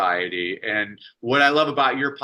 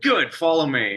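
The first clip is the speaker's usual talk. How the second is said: lightly voiced teacher, a bit higher and bright with purpose; teacher addressing class; 4 semitones higher than usual. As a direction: call the class like a lively schoolteacher.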